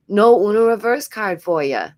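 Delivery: a light New York accent on ya; New York accent slipping. Real, not acted. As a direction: let the New York accent slip out, teasing. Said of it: "the New York is slipping out so hard".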